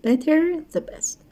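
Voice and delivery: good, better stretched out very slowly; teacher drilling good, better slowly; slow teaching demo. Shown as a demonstration. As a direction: model the forms slowly for learners.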